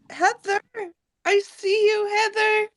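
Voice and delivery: high sing-song call. Real, not acted. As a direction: call her name up high. Calling out to Heather.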